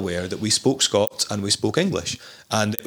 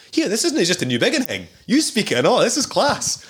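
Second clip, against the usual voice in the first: high, excited broad Doric Scots; quoting Elgin locals in broad Scots, higher; broad Scottish accent; 10 semitones higher than usual. Retold or imitated. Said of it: "the first time I'd learned a dialect".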